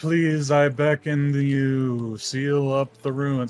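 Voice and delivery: drawn-out, very slow, pleading ghostly voice. Voicing a game character still inside the ruins: ghostly voice. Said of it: "I don't know why I'm making him talk like a ghost now".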